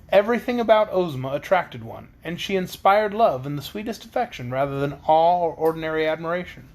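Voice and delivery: put-on expressive read-aloud of a children's book; story narration. A narrator's reading. Reader telling of Princess Ozma's beauty, story narration. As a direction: read the chapter out to listeners.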